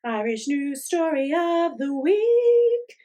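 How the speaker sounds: high, slow scratchy announcer voice. Pretend. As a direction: drag it out in a scratchy voice. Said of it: "my cat scratchy voice again".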